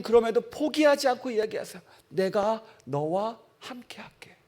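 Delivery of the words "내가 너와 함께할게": tender promise. Acted. God's promise voiced softly.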